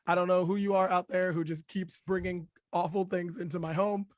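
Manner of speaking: hoarse from a cold; lost voice, raspy and strained; raspy whisper. Real, not acted. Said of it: "this is what you get".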